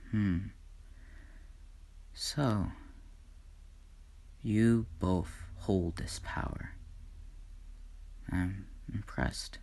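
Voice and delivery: soft whispered awe, barely voiced; hushed God. God softly to the newborn twins, whispered. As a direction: breathe it out in quiet wonder. God quietly meets his children.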